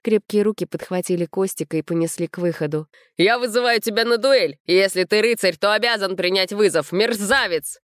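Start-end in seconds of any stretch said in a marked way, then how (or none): 3.2-7.8 raging. A narrator's reading. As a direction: challenge the groom to a duel. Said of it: "продолжал бушевать Серёга". (гневный вызов на дуэль, громче и выше)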